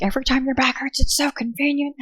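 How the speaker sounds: high, sarcastic mock of boyfriend; lightly hammed-up sarcastic partner. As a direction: mimic his snide jab, pitched high. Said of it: "he was like".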